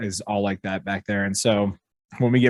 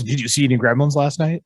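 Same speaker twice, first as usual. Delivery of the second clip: mock old piano teacher; 4 semitones higher than usual.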